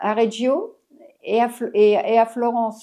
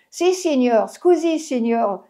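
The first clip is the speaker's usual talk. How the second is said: mock Italian apology; slower than usual. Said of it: "J'arrêtais pas de lui dire ça".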